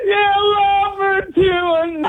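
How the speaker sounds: excited yelling. Real, not acted. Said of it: "calm down, buddy".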